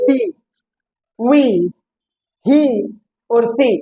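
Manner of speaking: बी, वी, ही, सी with a long "ee"; long ee vowel. Shown as a demonstration. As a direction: give बी, वी, ही, सी each a full long "ee". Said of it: "उच्चारण है बड़ी की मात्रा".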